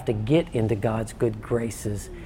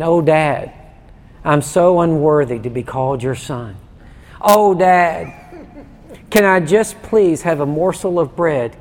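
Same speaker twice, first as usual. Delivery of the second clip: hammed-up groveling plea, a touch of laughter; mock begging son; 2 semitones higher, 4 dB louder than usual. Pastor mimics a begging son to the church, mock pleading. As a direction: grovel like an unworthy son, half joking. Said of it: "my son doesn't come begging to me".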